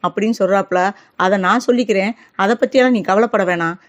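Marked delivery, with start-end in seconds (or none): 1.1-3.8 mild mock anger, the last question pushed louder; aunt angrily ordering the girl to leave at once; angry demand. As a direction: scold her into leaving right now. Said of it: "கோவமா பேசிக்கிட்டு இருக்காங்க".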